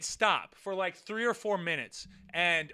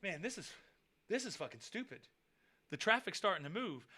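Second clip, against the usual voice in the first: much softer, muttered give-up; deflated mutter; 2 semitones lower, 12 dB quieter than usual. Retold or imitated. Fighters giving up as traffic moves, soft mutter. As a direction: drop it under your breath. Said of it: "they were like".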